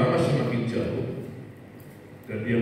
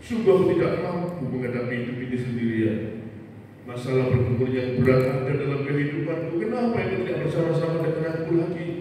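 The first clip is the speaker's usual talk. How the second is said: raised, pleading voice, mildly tearful; crying out to God; 6 semitones higher than usual. Acted. Man in the story crying out to God, mild tearful plea. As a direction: plead higher like a man near tears, not full sobbing. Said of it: "dia menangis menjerit-jerit".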